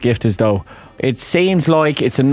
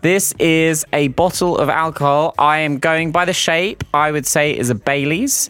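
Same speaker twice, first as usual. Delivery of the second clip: put-on Irish accent. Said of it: "Your Irish accent's good".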